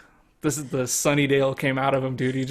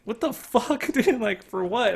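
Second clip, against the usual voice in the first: retold shock; 9 semitones higher than usual. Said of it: "And I'm like".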